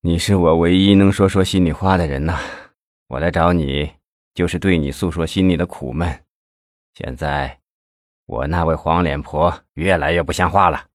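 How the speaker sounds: low, heavy-hearted complaint; understated misery; sorrowful. A narrator's reading. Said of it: "心情难过地说".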